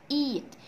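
EAT with a drawn-out ee; long vowel. Shown as a demonstration. Teacher modelling eat for pupils, long ee vowel. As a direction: stretch the ee in eat. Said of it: "عملوا لي صوت طويل".

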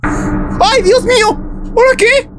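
high startled yelp. Real, not acted. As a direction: caught off guard, squeak it out. Baby suddenly cries, startled.

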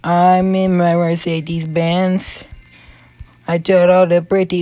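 slow, drawn-out mock Mexican accent. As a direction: chant it in a put-on Mexican accent. Playing the Mexican character again.

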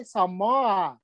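drawn-out Samoan accent imitation. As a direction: say it slowly, mimicking a Samoan accent. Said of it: "They talk like that".

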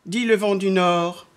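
drawn-out phrases that swoop up as things fly; children's story narration. A narrator's reading. Narrator telling how the wind blew, lilting storytelling. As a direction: tell it with suspense to small children.

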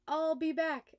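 a cartoon baddie vowing revenge; villain's threat. A narrator's reading. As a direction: germ threatening from the waste basket. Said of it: "the germ that makes you throw up said".

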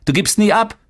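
high-pitched, rapid taunt; mocking. A narrator's reading. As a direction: jeer at your brother in a high kid's voice. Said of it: "spottete Boran".

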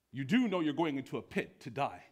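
incredulous check; mild acted disbelief; bewildered commandant. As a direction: make sure he grasps what he is asking. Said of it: "bewildered, shocked, and awe".

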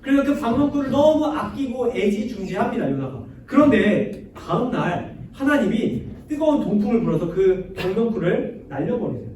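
ordinary talk, nothing marked

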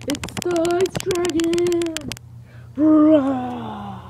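slow, booming dragon announcement; playful monster growl. Acted. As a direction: announce a monster, then roar. Dragon arrives, roaring.

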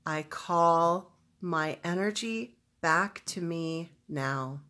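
slow affirmation, phrase by phrase; measured, emphatic statement; powerful declaration. Shown as a demonstration. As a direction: declare it deliberately, pausing between phrases. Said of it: "very emotionally powerful declaration".

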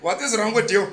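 soft, low scornful question; rat's disdain. Retold or imitated. Indian rat scornfully asks the man hitting it. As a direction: look down on him softly. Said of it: "they're like".

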